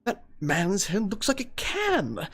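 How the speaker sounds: high, put-on fretful Allied soldier. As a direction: play a daunted soldier, high and mannered. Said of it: "Allied powers would be like".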